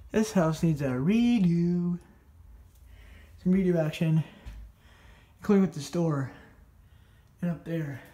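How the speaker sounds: winded, pushing words out; breathless after the climb; out of breath. Real, not acted. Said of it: "I seem out of breath".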